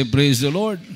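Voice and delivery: call and response. Shown as a demonstration. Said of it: "Everybody say".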